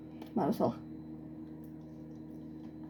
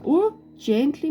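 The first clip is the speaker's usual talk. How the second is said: careful ooh; 6 semitones higher, 5 dB louder, slower than usual. Real, not acted. Carefully pouring the mixture.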